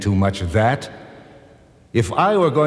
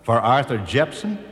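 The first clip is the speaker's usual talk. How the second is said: incredulous; 3 semitones higher than usual. Real, not acted. Incredulous echo of quote.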